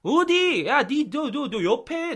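high, stammered alert; acted warning. Teacher acting out "behind you", high urgent warning. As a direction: stumble over the words as if warning a friend. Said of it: "너 뒤에라는 거죠".

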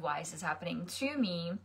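quiet, self-pitying "to me"; victim question. Shown as a demonstration. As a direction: ask it as the wrong, helpless version. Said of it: "instead of".

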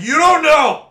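shouting at the girlfriend who called it a good song, mock outrage; mock outraged shout. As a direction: blurt it out in comic outrage. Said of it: "I'm like".

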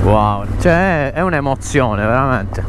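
loud over the motorbike noise; shouting over engine. Real, not acted.

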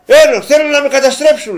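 loud, high mock plea of despair; exasperated cry. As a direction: throw up your hands at the bill. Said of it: "λέει".

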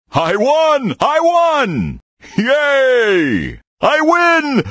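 high gleeful victory cheers; excited cheering. Acted. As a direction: squeal with delight at winning. Bear celebrates a win.

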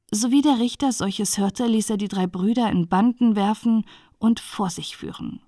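plain reading voice

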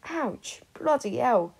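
shouting. Acted. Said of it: "Sirius shouted".

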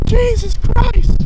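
high, slow gasp against the wind; gasping in icy wind. Real, not acted.

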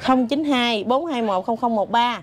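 số đọc chậm, rõ từng số; slow number read. Shown as a demonstration. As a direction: spell out each digit slowly. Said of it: "chị đọc số điện thoại luôn đi". (đọc chậm từng con số)

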